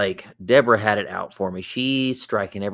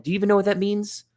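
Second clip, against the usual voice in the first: high, fast mock mom question; exasperated mom; 11 semitones higher, faster than usual. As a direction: ask like a flustered mother.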